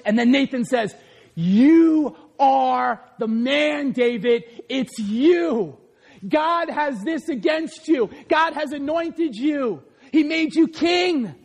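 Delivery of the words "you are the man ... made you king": prophet rebuking. Retold or imitated. Prophet Nathan rips into King David, rising to a shout. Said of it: "he rips into David".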